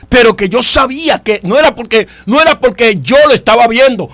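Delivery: emphatic preacher delivery, key words stretched; preaching. Acted. Preacher assuring the congregation that God is with them, emphatic preaching. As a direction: preach it with conviction, building.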